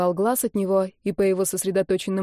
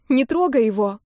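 крик; 4 semitones higher, 4 dB louder than usual. A narrator's reading. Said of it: "крикнула она".

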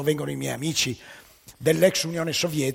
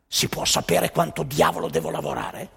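perplexed worker. Acted. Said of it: "domanda al funzionario".

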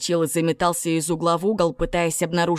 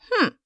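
hmph. A narrator's reading. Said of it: "хмыкнул первый голос".

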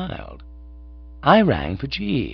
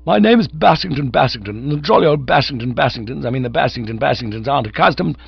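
put-on high, loud indignant young gent; affronted pride; 5 semitones higher, 5 dB louder than usual. A narrator's reading. Cyril defending his family to the manager, affronted. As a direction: sputter the family name in a huff.

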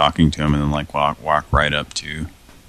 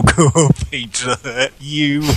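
mock flirty; 7 semitones higher, slower than usual. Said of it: "And I go".

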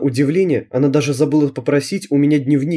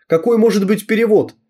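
shouting; 8 semitones higher than usual. Acted. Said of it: "закричала она".

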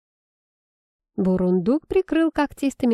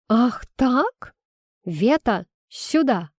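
calling out; 4 semitones higher, slower than usual. A narrator's reading. Witch calls her broom.

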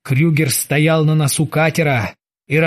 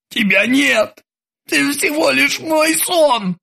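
high slow pleading insistence; cling to denial; desperate Krueger; 9 semitones higher, slower than usual. A narrator's reading. Krueger tells the terminator she's only a dream.

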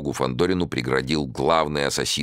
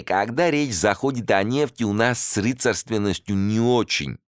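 raised, lively Caucasian host; 8 semitones higher than usual. A narrator's reading. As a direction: speak as an eager southern host. Caucasian host voiced in story.

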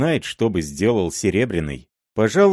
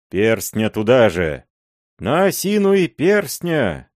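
put-on higher, louder drunken chants; rowdy mob shouting; 6 semitones higher, 3 dB louder than usual. A narrator's reading. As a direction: roar it like a drunk gang.

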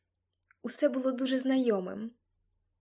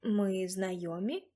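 disbelieving; 4 semitones lower, slower than usual. A narrator's reading. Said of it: "запитала я недовірливо".

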